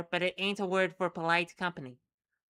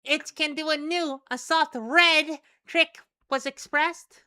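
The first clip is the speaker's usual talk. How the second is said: creature voice; 9 semitones higher, 9 dB louder than usual. Acted. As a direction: squeak it out like a little creature. Creature speaks in broken words.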